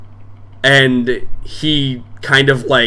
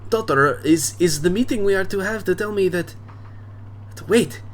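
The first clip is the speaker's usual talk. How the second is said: boisterous bar owner; 7 semitones higher, 4 dB quieter than usual. Acted. Drunk dad welcoming daughter's friends to his bar, booming. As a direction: play the drunk dad greeting guests expansively. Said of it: "and then I think he goes".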